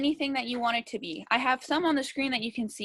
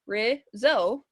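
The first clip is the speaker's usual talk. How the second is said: RIZZO split into two separate beats; syllable by syllable. Shown as a demonstration. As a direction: sound out RIZZO as "riz, zo". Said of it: "Remember how we check".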